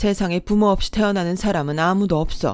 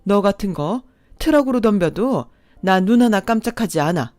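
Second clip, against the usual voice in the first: fierce protective anger; 3 dB louder than usual. Acted. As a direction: defend her children, fierce. Mother defends her daughter.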